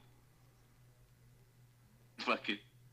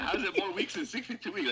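mock disbelief; 9 semitones higher than usual.

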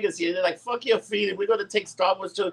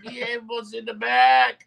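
calling out; 5 semitones higher, slower than usual. Real, not acted. Shouting to man in back.

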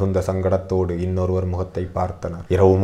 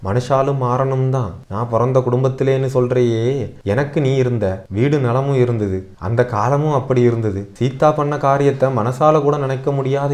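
high, pleading grandmother's voice; emotional old mother's appeal, higher throughout; impassioned grandmother; 5 semitones higher than usual. Acted. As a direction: plead with your son with aching resolve. Narrator voices grandmother's impassioned speech.

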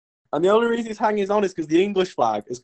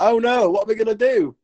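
higher-pitched mock dismay; mock alarm; 6 semitones higher than usual. Two soldiers at the cliff edge, mock alarm. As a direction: play at being alarmed. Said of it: "English dude are like".

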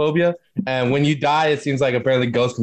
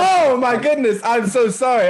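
high, slow, warped voice changer; 12 semitones higher, slower than usual. Real, not acted. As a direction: apologise through a pitch-shifting voice changer. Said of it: "I got my voice changer on".

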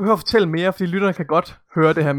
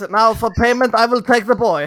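villain voice; 4 semitones higher, 4 dB louder than usual. Pretend. Joking villain bargaining, sung.

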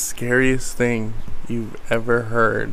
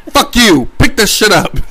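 laughing yell; 7 semitones higher, 6 dB louder than usual. Retold or imitated. Retelling yelling at wife.

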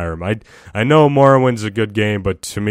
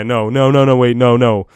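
louder flurry of no, no, wait; sudden self-correction; 5 dB louder than usual. Real, not acted. Vlogger realizing she got the order wrong, louder. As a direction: stop yourself mid-thought. Catching her own mistake.

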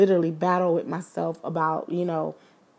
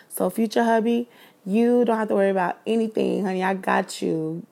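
playful flirty; 4 dB louder than usual. Acted. Playful address to future husband.

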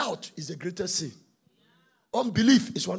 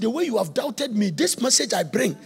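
angel's rebuke; 4 dB louder than usual. Acted. Gabriel rebuking doubting Zachariah, building chanted shout. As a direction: proclaim your rank to the doubter. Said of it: "He said".

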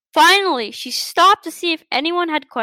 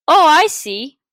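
eager cry; 4 dB louder than usual. Acted. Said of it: "cried the blackbird".

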